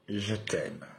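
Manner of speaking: soft, separate phrases with long pauses; hushed version. Shown as a demonstration. Demonstrating the mantra to viewers, hushed. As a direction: let each phrase drop softly. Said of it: "je vous le fais, euh, sous plusieurs versions".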